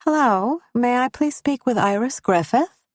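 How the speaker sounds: careful formal caller voice; neutral, professional airline agent; businesslike neutral tone. Acted. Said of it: "carefully neutral tone and businesslike formality".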